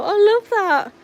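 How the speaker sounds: high, loud burst of delight; delighted exclamation. Real, not acted. Delighted by a viewer's dog name.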